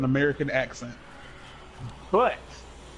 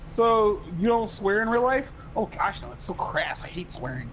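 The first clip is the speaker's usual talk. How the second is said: put-on stereotypical white boy; 3 semitones higher than usual. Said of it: "he talked like a stereotypical white boy".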